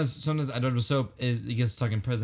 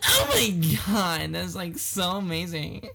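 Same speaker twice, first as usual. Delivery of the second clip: hammed-up camp gushing; 4 semitones higher, slower than usual. Continues camp impression.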